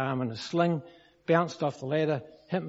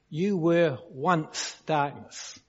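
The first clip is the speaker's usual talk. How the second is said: ONCE drawn out slowly; stress on ONCE; much slower than usual. Shown as a demonstration. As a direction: lean slowly on the word once. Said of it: "got that word once there?".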